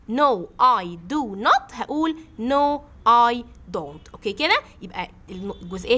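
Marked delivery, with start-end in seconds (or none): 0.1-4.1 no I do not, then no I don't, each word drawn out; slow model answer. Shown as a demonstration. Teacher shows her class the short form of not. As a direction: spell out the contraction slowly. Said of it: "ده لما أقول".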